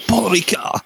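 badly imitated French accent; hammed-up French pronunciation; awful French accent. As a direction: have a clumsy go at French. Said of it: "That was an awful accent".

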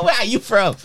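a light Nigerian accent, playing the local boys; high friendly Nigerian accent from the boys at the window. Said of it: "put on a Nigerian accent".

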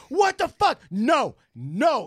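high, squawking dad impression; mock angry dad. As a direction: sputter like an outraged father. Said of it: "my dad would be like".

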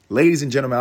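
loud, high showman opener; announcer call. Real, not acted. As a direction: hail the crowd like a ring announcer. Showman address to audience.

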